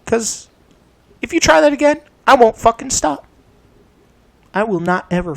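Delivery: a real shouted vow; shouting. Real, not acted. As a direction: scream the threat at mom. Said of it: "I said I wouldn't shout".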